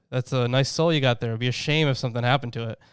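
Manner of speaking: mafia boss, veiled menace; smiling threat. Pretend. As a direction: purr a friendly-sounding threat. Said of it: "the whole mafia boss analogy".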